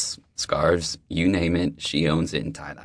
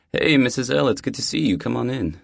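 high, friendly deli-lady voice; warm older neighbor; 7 semitones higher, 6 dB louder than usual. Acted. Deli owner welcoming the new neighbor, high and friendly. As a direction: greet him like an old friend at the door.

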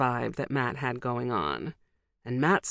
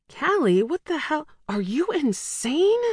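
high, sharp scolding outburst; angry hiss; 11 semitones higher, 4 dB louder than usual. Acted. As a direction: snap at her in alarm. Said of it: "she hissed through clenched teeth".

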